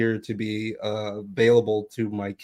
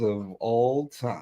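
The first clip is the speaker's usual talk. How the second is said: dramatic echo; much slower than usual. Acted.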